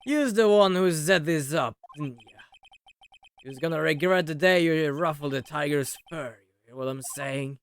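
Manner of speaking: a lightly voiced Brooklyn gangster, menacing; Brooklyn threat. Loan shark witness threatening the defense attorney, Brooklyn accent.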